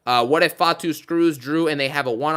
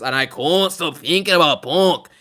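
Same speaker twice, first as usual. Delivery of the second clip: Joe Tessitore call; slower than usual. Retold or imitated. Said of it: "as Joe Tessitore would say".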